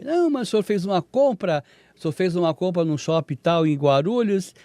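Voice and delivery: mock bank agent confirming a purchase; caller's voice. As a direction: play the scammer as a smooth bank agent. Retold scam call voice.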